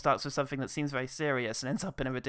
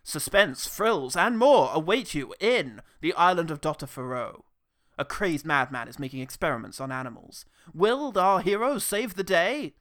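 put-on loud old movie trailer narrator; booming trailer voiceover; 5 dB louder than usual. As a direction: boom it like a sixties trailer. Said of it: "a guy come on and tell you the plot".

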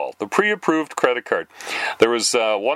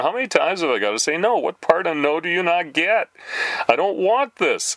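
fast, higher, fed-up demand; exasperated retort; 6 semitones higher than usual. Retold or imitated. Fed up with a telemarketer, a fast exasperated retort. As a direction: push back hard at the pushy caller. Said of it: "laughing at the abuse I'm giving this guy".

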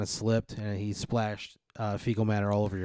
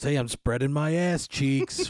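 Italian robot voice; 4 semitones higher, 4 dB louder, slower than usual. Retold or imitated. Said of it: "he goes".

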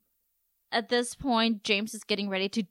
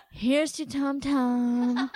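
mock toast; much slower than usual. Acted toast by sulking cast member.

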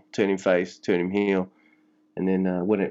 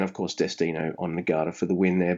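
usual speaking voice

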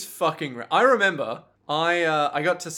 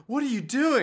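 higher-pitched mock posh English; posh English accent; 8 semitones higher than usual. Prosciutto challenges Pesci, in a posh English accent. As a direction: put on a posh accent for the question. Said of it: "why do I keep doing posh for Prosciutto".

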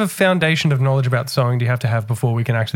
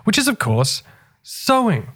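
podcast host intro; 3 semitones higher than usual. Acted. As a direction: open the show like a radio host.

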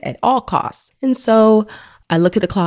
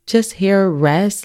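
slow, higher mock disbelief; disbelieving question; 4 semitones higher than usual. Mom doubting what she heard, retold slow disbelief. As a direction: question it slowly, as if doubting your ears. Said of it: "And I'm like".

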